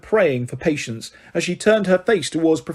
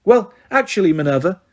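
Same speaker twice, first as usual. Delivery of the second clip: high, sugary correction; simpering; 3 semitones higher than usual. Acted. Umbridge correcting McGonagall, simpering. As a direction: simper the name. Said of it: "simpered Professor Umbridge".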